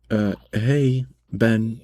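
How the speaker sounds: a mild retold holler with attitude; snarky yell. Cashier calling the manager over, snarky. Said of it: "I yell at him in the snarky voice".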